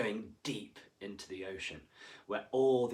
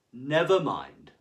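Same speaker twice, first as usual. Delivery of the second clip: a touch slow and louder; smiling teacher; 3 semitones higher, 9 dB louder, slower than usual. A narrator's reading. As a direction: reassure with a smile. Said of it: "smiled the teacher".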